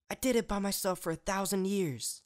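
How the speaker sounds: furious snap; snapped back. A narrator's reading. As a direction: throw it back at her. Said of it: "Celestia snapped back".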